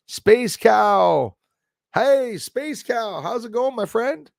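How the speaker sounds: high, slow drawn-out hello; cheerful greeting. Real, not acted. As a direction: greet a friend in the chat brightly. Greeting viewer warmly.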